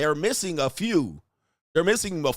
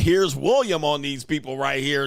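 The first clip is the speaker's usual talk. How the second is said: Cassie's threat quote; 2 semitones higher, 4 dB louder than usual. Retold or imitated. Reaction host mimicking Cassie's outburst, mock yell. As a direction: imitate her outburst, pitched up. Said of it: "Cassie went".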